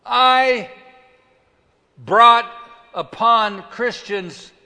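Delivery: loud, high, broken by long pauses; dramatic declamation. Acted. Preacher as Paul confessing persecution unto death, dramatic declamation. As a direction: hurl out each word, then let it hang.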